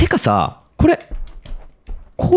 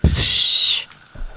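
mock spray hiss; 4 dB quieter, much slower than usual. Imitates spray sound.

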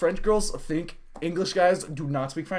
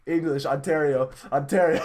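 slow mock non-French speaker; drawn-out, halting imitation; imitating buff guy. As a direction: act out a guy answering in bare words. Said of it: "He's like, he's like, he's like".

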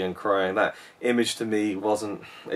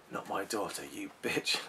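quoting Molly; 11 dB quieter than usual. Retold or imitated. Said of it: "A funny line in the film".

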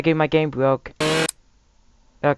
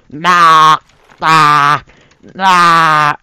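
Segway Guy; 3 semitones higher, 6 dB louder than usual. Acted. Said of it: "Segway Guy".

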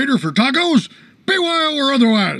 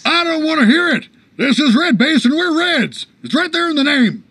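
insistent, higher-pitched objection; stubborn protest; 5 semitones higher than usual. Acted. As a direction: shut the argument down indignantly. Argument over who owns the base.

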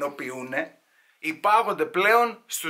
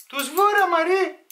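very high put-on auntie squeal; gossiping aunt; 5 dB louder, slower than usual. Aunt explains to another whose boy it is, gossiping aunt. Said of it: "Τι θα πούνε οι θείες".

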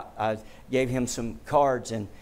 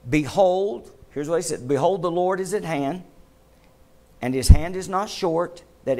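scripture reading. Acted. Preacher reciting Isaiah to the congregation, measured and solemn. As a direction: proclaim the verse with weight. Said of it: "and I'll paraphrase".

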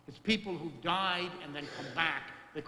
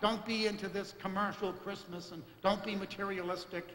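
mock homily; 4 semitones higher than usual. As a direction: play the scolding preacher half in jest. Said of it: "I could give a big homily".

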